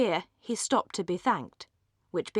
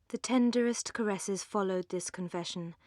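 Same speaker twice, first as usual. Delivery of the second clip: plain reading voice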